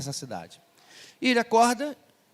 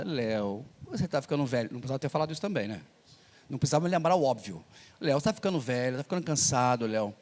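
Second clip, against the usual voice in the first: worried wife; 4 semitones lower than usual. Retold or imitated. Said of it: "a esposa preocupada".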